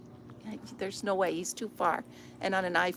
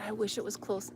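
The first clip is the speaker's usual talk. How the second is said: ordinary talk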